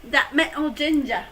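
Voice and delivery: botched Scottish impression with dropped t in "mental"; shaky attempt at a Scottish accent; failed Scottish accent. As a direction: have a clumsy go at Scottish. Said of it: "that's not a Scottish accent".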